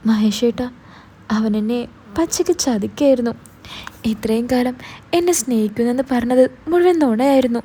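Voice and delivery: lightly voiced girl, a touch of tears; hint of weeping as she pours it out; mild sobbing. Girl tells Mahesh over the phone she was betrayed, mildly tearful. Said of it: "വിങ്ങിക്കരഞ്ഞുകൊണ്ട് പറഞ്ഞു".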